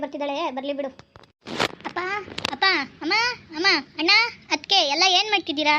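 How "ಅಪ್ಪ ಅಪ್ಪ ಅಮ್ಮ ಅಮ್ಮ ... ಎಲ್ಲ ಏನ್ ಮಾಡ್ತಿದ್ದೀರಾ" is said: daughter calling for the family. Acted. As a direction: call out to everyone in the house. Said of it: "ನಾನು ಇಷ್ಟೊಂದು ಕೂಗ್ತಿದ್ದೀನಿ".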